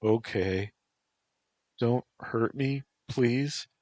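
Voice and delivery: high, small pleading voice; Antropos, hurt and whimpering. Acted. Antropos asking Black Fan to rest, high whimper.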